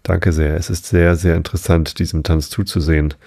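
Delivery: measured audiobook storytelling; story narration. A narrator's reading. Narrator reads the Lobster Quadrille chapter to listeners, measured storytelling. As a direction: read it unhurriedly, giving each phrase room.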